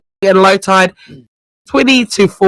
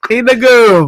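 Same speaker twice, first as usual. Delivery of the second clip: drag queen voice; 3 semitones higher, slower than usual. Acted. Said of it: "going for a drag queen voice".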